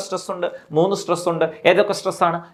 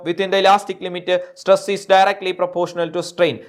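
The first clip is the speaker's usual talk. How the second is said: slow dictation; much slower than usual. Shown as a demonstration. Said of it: "dictating law slowly".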